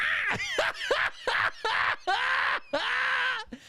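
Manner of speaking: shrieking laugh, nearly crying; can't get through the story for laughing; high helpless laughter. Real, not acted. Comic cracking up at the cat-girl bit, shrieking laugh. Comedian loses it again.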